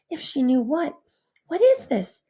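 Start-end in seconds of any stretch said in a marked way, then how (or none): 1.5-2.2 whisper. A narrator's reading. Panicked inner question at night.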